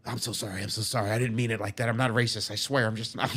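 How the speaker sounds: hurried mock pleading; imitated apology. Inmate apologising through the door, imitated pleading. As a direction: plead innocence as the man being quoted. Retold frantic apology from Mellis.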